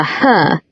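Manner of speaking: "her" spat out with venom; venomous stress. A narrator's reading. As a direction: load "her" with spite. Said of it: "single-syllable word with enough venom".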